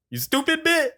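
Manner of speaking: squeaky high, giggling jab; a silly pretend insult through giggles; laughing mock insult. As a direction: toss the insult while laughing.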